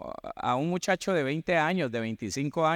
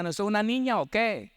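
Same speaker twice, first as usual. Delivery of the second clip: mocking taunt; 8 semitones higher than usual. Adults mocking a crying boy.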